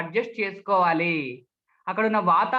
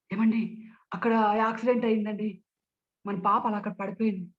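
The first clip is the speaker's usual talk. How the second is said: flustered, anxious. Shown as a demonstration. Speech trainer reports a child's accident, anxious. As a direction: mildly panicky report. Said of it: "కంగారుగా మాట్లాడవచ్చు".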